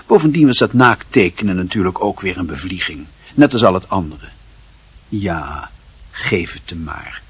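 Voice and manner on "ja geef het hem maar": resigned mother. Acted. Mother gives in, voiced softly.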